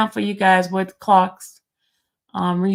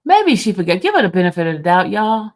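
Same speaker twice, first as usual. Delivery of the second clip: mocking; 3 semitones lower, 6 dB louder, faster than usual. Teasing, loud mock defense.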